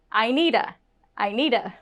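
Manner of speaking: "I need a" run together as "eye-needuh"; made one word. Shown as a demonstration. Teacher models three words as one, linked speech. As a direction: say "I need a" with no gaps. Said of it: "make it one".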